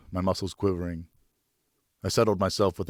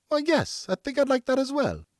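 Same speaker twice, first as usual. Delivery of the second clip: higher, light motherly voice; mother delighted by her son's offer; gentle mother. A narrator's reading. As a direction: answer like a doting mother.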